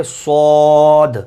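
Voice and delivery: صاد ending on a bounced d; slow صاد closing on d; letter demo. Shown as a demonstration. Teacher models صاد ending on d. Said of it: "آخر میں دال کی آواز نکلے گی".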